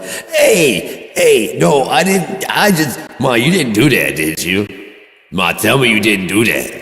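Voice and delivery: high, loud teasing accusation; mock outraged son. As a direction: pretend to be scandalized at mom.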